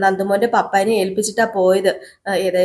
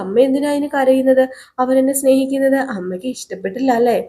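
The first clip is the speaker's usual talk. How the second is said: lightly voiced little girl; 5 semitones higher than usual. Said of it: "എന്നൊക്കെ ഇങ്ങനെ ഗൗരിമോള് ചോദിക്കുക".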